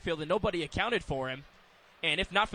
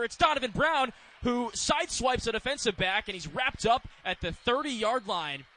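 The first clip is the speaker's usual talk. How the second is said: lively, raised football call; play-by-play; 6 semitones higher than usual. Real, not acted. Announcer calls a big catch to the crowd, lively play-by-play. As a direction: call the catch with a lift in pitch.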